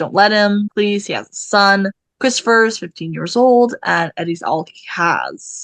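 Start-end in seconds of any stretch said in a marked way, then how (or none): none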